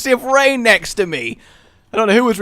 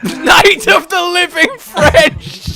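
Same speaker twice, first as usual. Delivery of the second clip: high, drawn-out title announcement; mock horror-film title; 9 semitones higher, 3 dB louder, much slower than usual. Gamer parodying a zombie film title, mock announcer. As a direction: stretch it out like a hammy movie title.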